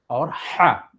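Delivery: हा with a light throat h; soft h in हा. Shown as a demonstration. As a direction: say हा with a soft, plain h. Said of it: "दोनों में कितना फ़र्क है". (हल्के ह के साथ हा)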